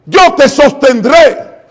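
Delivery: a hint of Jesus, drawn out and emphatic; Jesus speaking. Preacher voicing Jesus's promise to his followers, slow and solemn. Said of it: "Y Él lo dijo".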